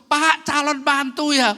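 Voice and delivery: high, loud, drawn-out teasing; teasing call. Retold or imitated. Church ladies teasing the pastor about his future daughter-in-law, loud and high. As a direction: sing it out to tease the pastor.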